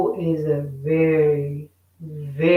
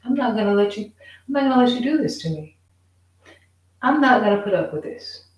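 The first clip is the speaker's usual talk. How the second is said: higher and fast, firmly refusing; defiant; 4 semitones higher, much faster than usual. Retold or imitated. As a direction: spit it out quick, standing your ground. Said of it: "is saying".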